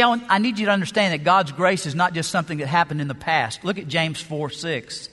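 normal talking voice

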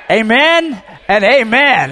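loud, high, slow full-force shouting; preaching shout. Real, not acted. Preacher leading the church to shout, full-force preaching. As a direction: lead the congregation in a shout of joy. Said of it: "shout after me".

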